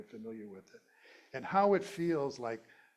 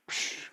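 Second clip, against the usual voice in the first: stamp noise. Acted. Imitates a stamp on the forehead.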